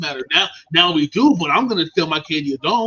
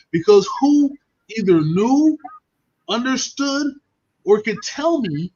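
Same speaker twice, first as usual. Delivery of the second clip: emphatic; 4 semitones higher, 3 dB louder, slower than usual. Real, not acted. Emphatic point about parents.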